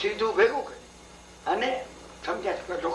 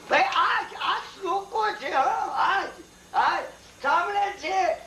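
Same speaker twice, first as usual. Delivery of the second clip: higher, laughing through the words; 8 semitones higher than usual. Real, not acted. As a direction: chuckle while exclaiming to the listeners. Preacher laughing mid-tale.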